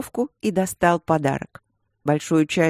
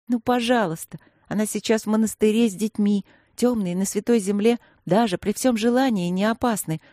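plaintive; 3 semitones higher than usual. Acted. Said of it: "мой тон был достаточно жалобным".

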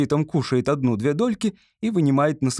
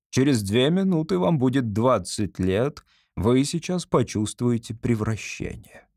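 ordinary delivery

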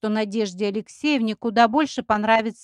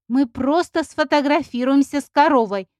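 offended drawl; 4 semitones higher, 6 dB louder than usual. A narrator's reading. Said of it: "обиженно протянула Поля".

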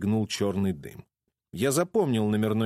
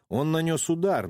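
ordinary delivery, nothing marked

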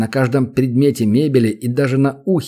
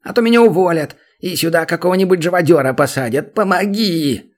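pleading; 5 semitones higher than usual. A narrator's reading. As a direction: plead as if your job hangs on it. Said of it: "взмолился гоблин". (гоблин умоляет демона о помощи, выше и громче)

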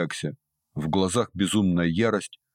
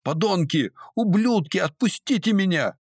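desperate screams; 12 semitones higher than usual. A narrator's reading. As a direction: scream to be let go, struggling. Girl pinned, screaming at captors. (отчаянный пронзительный крик)

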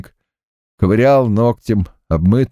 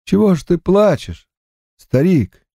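dying man, higher and gasping; gasping for breath; 9 semitones higher than usual. Acted. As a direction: force the words out between gasps. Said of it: "задыхаясь, он проговорил".

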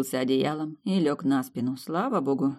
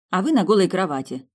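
loud, spiteful jab; vengeful; 5 semitones higher, 7 dB louder than usual. A narrator's reading. Heroine banishing the prince to a bare bed, loud vengeful jab. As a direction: get even with a loud retort. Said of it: "добавила мстительно".

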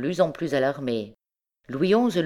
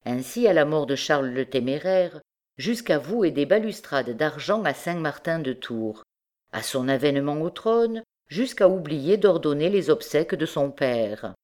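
usual speaking voice

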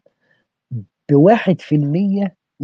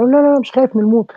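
higher, fast, defiant no, no, no; defiant condemned man; 10 semitones higher, faster than usual. Retold or imitated. The killer answering his captors, defiant and quick. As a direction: toss off the fear of death with bravado. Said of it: "فواقف كده يقول له".

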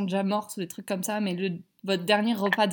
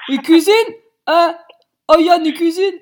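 excited; 7 semitones higher, 11 dB louder than usual. Real, not acted. Boyfriend cooking in the background.

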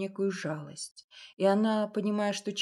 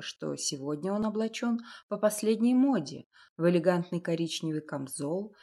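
plain reading voice

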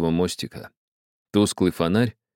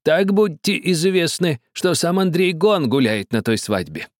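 put-on threatening old man; 10 semitones higher than usual. A narrator's reading. Old man threatening the captain. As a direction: let the threat sink in. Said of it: "тихо и грозно спросил старик".

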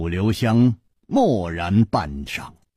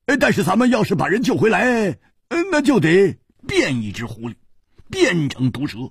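high, forceful exclaiming; roaring; 12 semitones higher than usual. Acted. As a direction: bellow it out high. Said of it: "他又大吼起来".

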